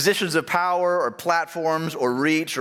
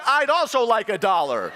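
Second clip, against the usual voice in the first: put-on higher, prim little-boy request; polite kid; 5 semitones higher than usual. Pastor voicing son Redmond asking for a dollar. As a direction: ask politely like a small child. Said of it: "Redmond's like".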